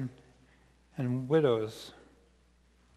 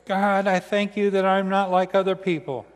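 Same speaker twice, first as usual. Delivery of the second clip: loud, higher-pitched Pharisee's prayer; praying Pharisee; 4 semitones higher, 7 dB louder than usual. Acted. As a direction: proclaim it to God like a self-regarding Pharisee. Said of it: "The Pharisee stood by himself and prayed".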